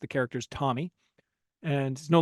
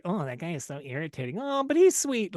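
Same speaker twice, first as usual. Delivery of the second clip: mock gossiping girls; 3 semitones higher than usual. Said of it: "and they're like".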